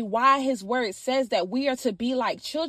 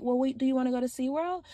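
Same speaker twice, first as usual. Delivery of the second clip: soft, quick imitation of a child's invitation; calm, loving; 6 dB quieter, faster than usual. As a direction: imitate an unfazed little boy, asking softly. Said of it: "kept talking in the same tone".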